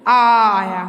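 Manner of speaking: आ called out loud and strong; teacher booming the answer to children; emphatic answer. Shown as a demonstration. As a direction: answer the class loudly. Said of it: "इसके अंत में क्या आया बच्चों?".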